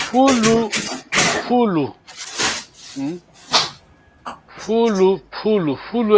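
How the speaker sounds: "Fulo" said with a falling tone, repeated; teacher drilling the tones of "Fulo"; tonal model word. Shown as a demonstration. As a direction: give "Fulo" its tone clearly, over and over.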